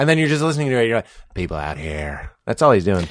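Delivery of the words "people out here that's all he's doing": gravelly Southern voice, lower. Acting out what you think while listening to it: a little Southern, a little Batman. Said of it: "a little Southern, it's a little Batman".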